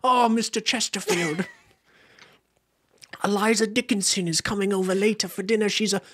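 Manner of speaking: high, hammed-up period-drama English lady; posh British accent. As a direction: swoon like a Regency matchmaker. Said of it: "sounds like a name of a British person".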